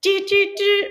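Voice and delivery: sharp high stabbing noises; stabbing sound effect. Retold or imitated. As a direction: mimic jabs of a knife. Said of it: "with, like, a knife".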